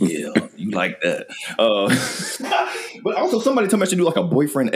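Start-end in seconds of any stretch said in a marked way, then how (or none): 0.0-1.3 low, slow pillow-talk parody; jokey bedroom voice, pitched down; mock seductive voice. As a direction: lay on a slow, sultry come-on. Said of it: "get a bitch pregnant voice".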